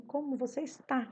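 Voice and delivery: "Como você está?" as a question, lifting on the final "está"; subir no final. Shown as a demonstration. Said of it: "É no final que eu subo". ("Como você está?" subindo no "está")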